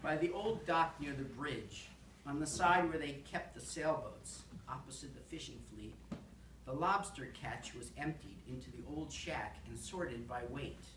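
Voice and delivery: deliberate, measured poetry recital; poem reading. Acted. Poet reading a lobster shack poem to an audience, measured recital. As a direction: read it out phrase by phrase, lifting key words.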